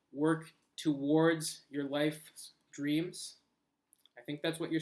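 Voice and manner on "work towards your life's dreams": slow rephrasing. Shown as a demonstration. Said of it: "I think you're saying".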